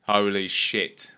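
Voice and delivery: put-on slow, amazed English accent. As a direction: gasp it out slowly in an English accent. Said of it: "Is that your Boyle voice?".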